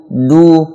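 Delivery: "Du" with light D and pure U; thin du. Shown as a demonstration. Teacher contrasting with the mistake, thin "Du". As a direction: keep "Du" thin, with rounded U. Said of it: "bukan sudu".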